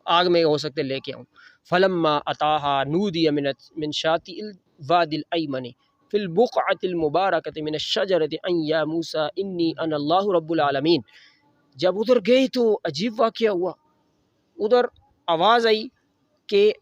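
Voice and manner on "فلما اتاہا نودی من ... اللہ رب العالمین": Quran recitation. Acted. Quran recitation within the sermon. (آہستہ قرآنی تلاوت)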